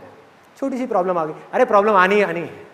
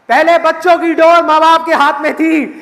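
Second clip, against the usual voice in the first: louder, slower, higher punchline; emphatic declaration; 4 semitones higher, 5 dB louder than usual. Real, not acted. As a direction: drive the moral home. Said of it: "speaker's emphatic moral point". (ज़ोर देकर, धीमे और ऊँचे स्वर में)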